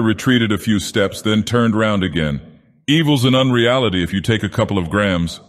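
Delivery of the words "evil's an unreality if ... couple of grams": menacingly derisive. Acted. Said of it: "the tone was menacingly derisive".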